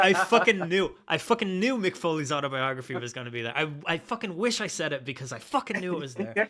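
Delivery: loud, high-pitched exclaiming; real worked-up I-knew-it outburst; excited vindication. Real, not acted. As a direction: burst out as if your hunch just came true. Excited at having predicted the book.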